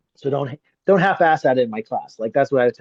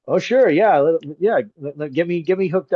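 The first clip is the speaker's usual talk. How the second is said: eager; 4 semitones higher than usual. Retold or imitated. Retold eager reply to friend.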